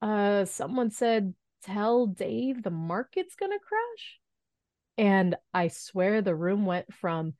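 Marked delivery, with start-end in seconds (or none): 0.0-4.2 slow, higher, timidly questioning; hesitant mock-nervous delivery, rising at the end; imitated shaky voice. Intern relays bad news to the room, imitated shaky voice. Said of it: "in a very shaky voice".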